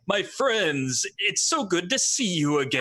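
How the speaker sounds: big booming greeting. Acted. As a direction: boom it out like a huge alien. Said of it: "a booming voice ringing out".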